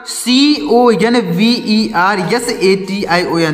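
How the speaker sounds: slow, careful letter-by-letter spelling; spelled out slowly. Shown as a demonstration. Teacher spelling a long word slowly so students follow. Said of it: "ध्यान से समझिएगा".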